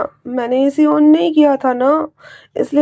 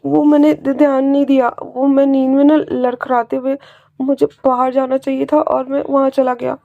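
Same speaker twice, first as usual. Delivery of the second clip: nervous pleading; 4 semitones higher than usual. Acted. Wing begs his uncle to forgive him, nervous and higher.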